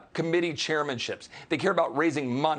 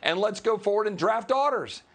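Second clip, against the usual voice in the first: mock Republican voice; 6 semitones higher than usual. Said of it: "They're saying".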